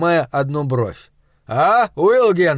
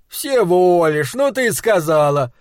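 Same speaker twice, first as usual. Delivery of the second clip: mock outrage; 3 semitones higher, 3 dB louder than usual. Husband protests.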